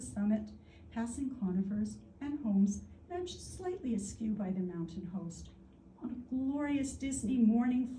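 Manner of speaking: storytelling poem recital, lilting phrases with deliberate pauses; measured, expressive verse delivery; poetry reading. Real, not acted. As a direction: tell it as a poem, letting short phrases hang. Reads own poem aloud.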